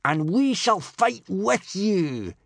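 slow, high, loud rallying yell. A narrator's reading. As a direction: yell your pledge to the chief. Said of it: "yelled Snotlout".

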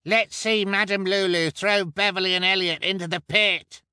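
high, loud heckler's yell; rowdy spectator, very high and loud; cried out. Acted. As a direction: yell the demand from the crowd. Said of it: "cried the pimple man".

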